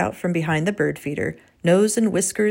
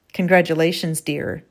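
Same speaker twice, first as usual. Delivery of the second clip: cold. Acted. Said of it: "her cold tone".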